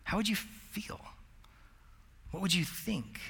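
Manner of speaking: a soft, breathy whisper put to the room; hushed question. Real, not acted. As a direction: lean in and ask it quietly. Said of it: "If you heard somebody do that".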